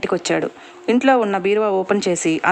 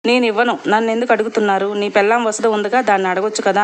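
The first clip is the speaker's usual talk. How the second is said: lightly voiced sarcastic jab, quicker. Lover refusing the gold and mocking his wife, lightly sarcastic. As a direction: needle him with mild sarcasm. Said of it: "అని వెటకారంగా అంది".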